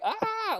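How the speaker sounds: high-pitched imitated scream of pain; mock yelp. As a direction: yelp like you've just been bitten, acting it out. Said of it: "like this".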